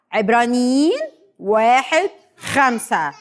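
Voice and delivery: drawn-out reference, word by word; slow recitation. Shown as a demonstration. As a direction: lead the children in saying it slowly. Leading children in slow group recitation. (ترديد بطيء للشاهد كلمة كلمة)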